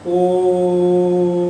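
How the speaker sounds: ओम held long as a pluta vowel; ओम, लंबा खींचकर; prolonged Om. Shown as a demonstration. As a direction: stretch ओम into a long drawn-out Ommm. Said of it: "ओम का जब हम लंबा उच्चारण करेंगे तो पलुत हो जाता है".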